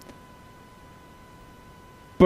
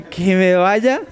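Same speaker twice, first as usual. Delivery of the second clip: mocking disbelief; 3 semitones higher, slower than usual. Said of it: "le dice así como de".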